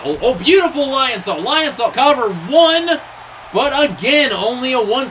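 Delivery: excited pin call. Real, not acted. Commentator counting a near fall, excited. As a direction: build to a loud count of one.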